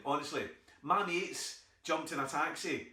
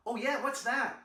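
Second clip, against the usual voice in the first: American auntie; 9 semitones higher, 4 dB louder than usual. Retold or imitated.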